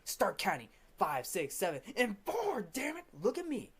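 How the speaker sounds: mock-furious count-off climbing in pitch; bossy conductor losing his temper, played lightly; retold fury. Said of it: "in fury tells".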